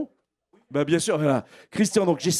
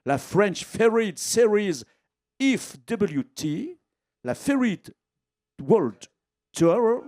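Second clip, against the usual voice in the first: French Ferry Series said with an English accent, slow; 3 semitones higher, much slower than usual. Shown as a demonstration. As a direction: put on a light English accent for the event name. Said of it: "on va dire avec l'accent". (avec un léger accent anglais)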